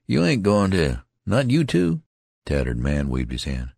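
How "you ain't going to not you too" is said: much higher and louder, rising in fear; alarmed plea. Acted. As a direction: beg him not to die. Youth fears friend dying.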